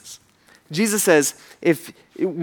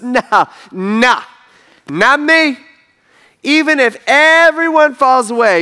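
laughing brush-off; 5 semitones higher, 5 dB louder than usual. Retold or imitated. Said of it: "He's like".

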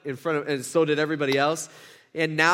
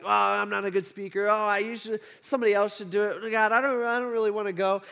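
reluctant excuses; 3 semitones higher than usual. Retold or imitated. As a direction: make reluctant, hammed-up excuses. Preacher voices Moses making excuses.

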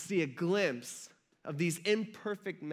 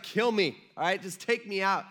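louder, emphatic mock despair; acted despair; 4 dB louder than usual. Preacher voices depressed Elijah begging God, acted despair. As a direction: play a fed-up plea to be killed. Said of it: "Talk about depressed. He's just like".

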